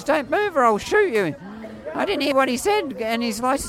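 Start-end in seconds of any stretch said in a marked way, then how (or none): 0.0-1.4 higher, imitated police megaphone order; retold police warning, raised in pitch; megaphone command. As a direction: call it out like a cop on a megaphone. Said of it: "pulls out his megaphone and goes".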